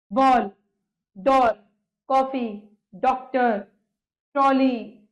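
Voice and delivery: बॉल, डॉल, कॉफी, डॉक्टर, ट्रॉली with an open "aw"; between aa and o. Shown as a demonstration. Teacher listing English loanwords, open "aw" vowel. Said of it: "इसका उच्चारण आ ओ के बीच".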